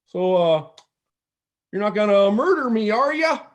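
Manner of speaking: cheesy nineties comic voice, milking the punchline; Jim Carrey impression. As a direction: driver teasing a hitchhiker in a bad comic voice. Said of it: "his best shitty mid-nineties Jim Carrey impression".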